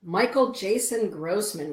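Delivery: loud, slow name call. Real, not acted. Greeting a viewer on her live show, calling his name out loud. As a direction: announce the viewer's full name.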